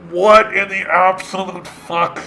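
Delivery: appalled, calling out to the audience in disbelief; what in the world, you guys. Real, not acted. Reacting to absurd article.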